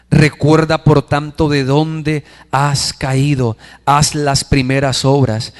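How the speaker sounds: slow, measured verse recitation; solemn scripture reading. Real, not acted. Preacher repeating the call to repent, solemn and slow. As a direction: repeat the verse slowly, phrase by phrase.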